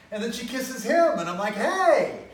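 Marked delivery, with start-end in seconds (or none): 1.5-2.3 high, loud yell of protest; acted-out outraged "hey"; indignant shout. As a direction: object loudly, scandalized. Second protest as she kisses him.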